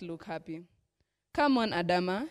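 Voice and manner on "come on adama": pleading. Acted. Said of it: "she pleaded".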